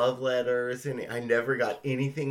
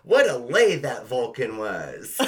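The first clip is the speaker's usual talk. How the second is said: slow, loud mock-dramatic reading; dramatic quoted line; 6 dB louder than usual. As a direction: boom out the punchline slowly. Quoting last line of fanfic.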